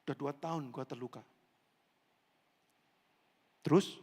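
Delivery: ordinary talk, nothing marked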